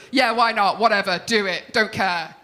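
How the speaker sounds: careless "Yeah, why not", YEAH stressed and falling; dismissive shrug. Retold or imitated. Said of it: "Doesn't make me trust you".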